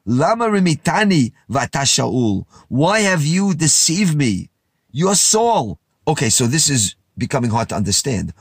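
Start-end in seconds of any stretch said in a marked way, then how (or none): 0.0-5.8 raised, higher cry of alarm; the medium cries out to Saul, mildly alarmed; woman cries out. Acted. Medium accusing Saul of deception, raised alarmed cry. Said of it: "she cried out in a loud voice".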